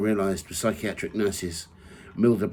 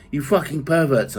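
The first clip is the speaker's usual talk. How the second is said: higher, louder furious yell; yell at full volume; 6 semitones higher, 6 dB louder than usual. A narrator's reading. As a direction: scream it while pinned down. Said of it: "I yelled at the greatest volume I could".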